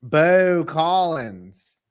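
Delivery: very slow, drawn-out robotic name. Shown as a demonstration. Host sounding out a player's name, slow and robotic. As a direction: stretch each word out like a robot. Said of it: "Do I sound like a robot?".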